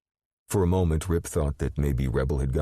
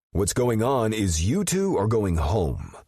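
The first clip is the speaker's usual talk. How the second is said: stern order; 9 semitones higher, 3 dB louder, slower than usual. A narrator's reading. Rip glaring, ordering them home.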